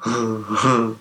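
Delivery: short high creature giggle; simple-minded giggle in place of an answer; Leaf. Acted. Game master as Leaf not answering helpfully, high giggle. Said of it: "just starts giggling".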